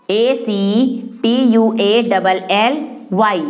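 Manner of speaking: slow, spaced-out spelling. Shown as a demonstration. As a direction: dictate each letter slowly to students. Spelling out a word for learners. (अक्षर-अक्षर धीरे से लिखवाते हुए)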